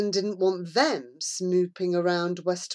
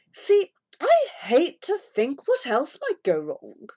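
higher veiled threat; mock concern with menace; narrated bully threat; 7 semitones higher, 4 dB louder than usual. A narrator's reading. Bully threatening Amy in the shop, higher veiled threat.

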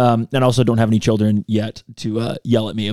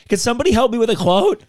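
imagined calling out; 11 semitones higher than usual. Retold or imitated. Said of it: "being like".

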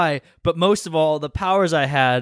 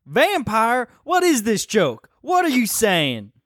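put-on shocked kid; 8 semitones higher, slower than usual. Son shocked.

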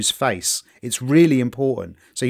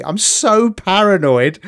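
normal talking voice

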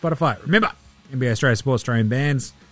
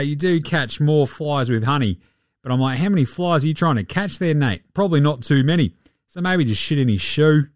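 Joe Ingles impression. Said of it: "I've been Joe Ingles".

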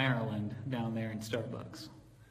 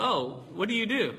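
imitating barista; 7 semitones higher than usual. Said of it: "She goes".

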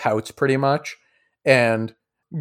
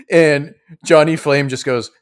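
usual speaking voice

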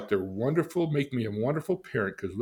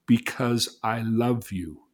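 tender; 2 semitones higher, 4 dB louder, much slower than usual. Retold or imitated. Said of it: "is he saying".

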